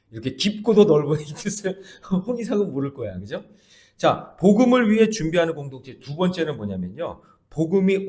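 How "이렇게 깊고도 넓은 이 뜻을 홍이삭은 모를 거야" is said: teasing through a laugh; laughing tease. Acted. Pastor joking to the church about the singer, laughing. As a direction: laugh while you tease.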